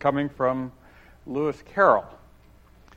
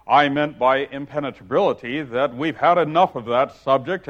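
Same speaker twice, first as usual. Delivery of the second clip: louder, bouncy Humpty Dumpty; hearty, self-pleased Humpty voice; gaily; 6 dB louder than usual. Acted. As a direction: boom it out cheerfully as a pompous egg. Humpty voice held.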